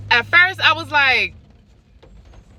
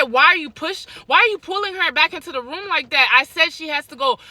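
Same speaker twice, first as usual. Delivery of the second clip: retold angry confrontation; 5 semitones higher, faster than usual.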